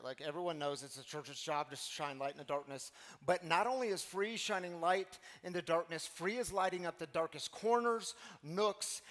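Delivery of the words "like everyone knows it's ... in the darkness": lightly imitated, as if everyone knows it; a mild touch of duh, stating the obvious; matter-of-fact. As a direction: say it like it's obvious, no big deal. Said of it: "This is how she said it".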